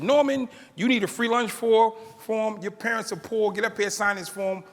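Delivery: mean teacher. Retold or imitated. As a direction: lampoon a tactless teacher. Homeroom teacher shaming poor kid.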